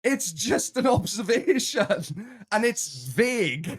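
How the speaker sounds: put-on high, drawn-out American accent; exaggerated American whine, slowly stretched. Defending an observation to the teasing co-host, mock American accent. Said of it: "Which American accent?".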